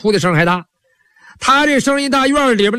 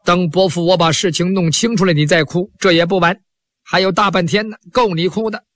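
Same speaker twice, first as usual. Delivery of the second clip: put-on lower, wry elderly voice; an old priest calming his nephew, half teasing; old Taoist telling his nephew to hold the tears, lower; old uncle priest; 3 semitones lower than usual. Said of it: "老道说".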